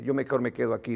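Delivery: low, quiet sceptical aside; incredulous. Retold or imitated. Doubter deciding to stay in the pew, incredulous low mutter. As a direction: opt out under your breath. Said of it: "algo incrédulo".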